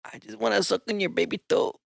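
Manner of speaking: mock flirting in a Mexican accent; paisa accent.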